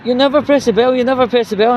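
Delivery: hammed-up whining bus driver; imitating driver. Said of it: "he went".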